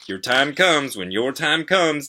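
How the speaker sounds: high, loud, slow singsong saying; dad's saying. A narrator's reading. Kid quoting what Dad always says, singsong imitation. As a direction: stretch it out like a well-worn motto.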